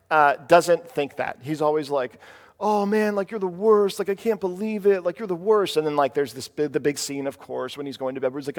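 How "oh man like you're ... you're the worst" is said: higher-pitched mock griping; mock exasperated complaint; complaining kid. Acted kid complaining about his mom.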